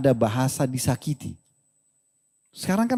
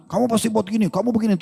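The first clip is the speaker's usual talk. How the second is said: higher, lightly voiced nagging wife; mock accusing wife; 6 semitones higher than usual. Wife accusing her husband, mock nagging. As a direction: point the finger in a wife's voice, half joking.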